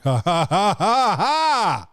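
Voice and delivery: loud, mocking movie-star laugh; a big, knowing Denzel cackle. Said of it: "And Denzel's like".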